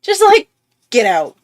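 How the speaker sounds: very high, loud burst, then blurted; hammed-up panicked shooing; exaggerated high yelp, playing it up; mock dismissal.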